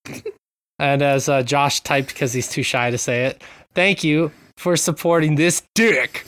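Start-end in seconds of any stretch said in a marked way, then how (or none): 3.7-6.3 slow, pitched-up build to the last word; mock announcer. Host reading co-host's typed joke, mock announcer. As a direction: draw it out into a big drop on DICK.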